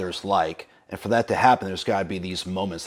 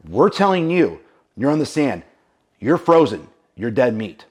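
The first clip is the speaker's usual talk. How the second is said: urgent exhortation; 4 semitones higher, 6 dB louder than usual. Real, not acted. Coach urging listeners.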